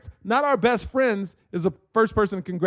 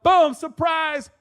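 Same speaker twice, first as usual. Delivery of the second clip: high, stretched-out announcement; spring the surprise, drawing it out; surprise shout re-enacted; 9 semitones higher, much slower than usual. Acts out the party surprise.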